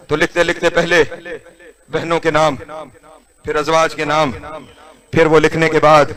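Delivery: softly recited list of daughters; hushed lament. Acted.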